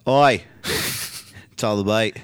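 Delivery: imitated British accent slipping into Australian; botched British accent. Reading Trent Seven's tweet about DIY, botched British accent. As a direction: put on a British wrestler's accent, badly. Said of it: "Doing the wrong accent here".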